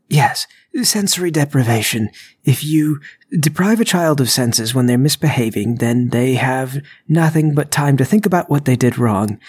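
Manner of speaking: lightly acted eager explainer; bluffing burglar. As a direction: explain it earnestly, making it up. Burglar explains invented method.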